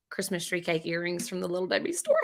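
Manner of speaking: soft unvoiced whisper. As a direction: whisper it back playfully. Whispering back.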